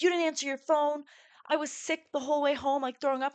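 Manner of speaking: half-hearted angry scolding; mild retold anger. Boyfriend scolding her, mild retold anger. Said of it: "He's like".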